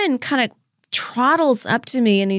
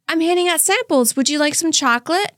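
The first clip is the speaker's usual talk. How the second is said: higher, bright sales pitch; customer service voice; 6 semitones higher than usual. Retold or imitated. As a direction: sell it sweetly to a customer. Her own sample-girl voice.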